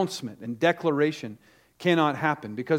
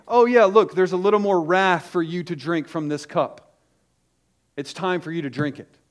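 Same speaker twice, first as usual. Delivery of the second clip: mock wrathful God; 3 dB louder than usual. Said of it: "God the Father will never say".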